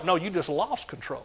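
normal talking voice

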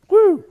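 high, loud joyful whoop; preacher whooping after the amen; excited whoop. Real, not acted. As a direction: let out a big church whoop.

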